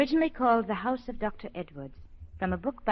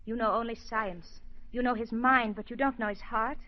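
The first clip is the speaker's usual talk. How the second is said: earnest defence. Acted. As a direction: make him see the man's heart. Constance defends the man.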